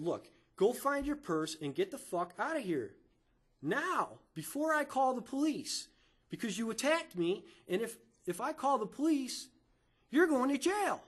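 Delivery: building from firm words to a high-pitched threat; retold angry warning. Retold threat to call police.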